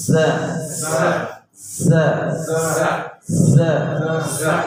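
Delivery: সা with a sharp hissing স like a sparrow's chirp; whistled s sound. Shown as a demonstration. Teacher shows students the whistling সা, hissed sharply. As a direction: let the স in সা whistle through the teeth. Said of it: "একটা করে বলি".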